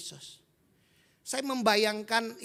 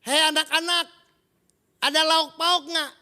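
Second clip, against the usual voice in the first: calling out; 6 semitones higher, 9 dB louder than usual. Acted. Jesus calls to fishermen in boat.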